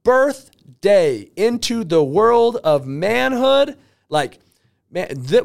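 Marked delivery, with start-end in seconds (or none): 0.0-3.8 high, loud, drawn-out cheering; yelled celebration. Retold or imitated. Speaker cheering the newly unemployed relative, jubilant yelling. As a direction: hype him up like it's his big day. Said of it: "I'm yelling on the phone".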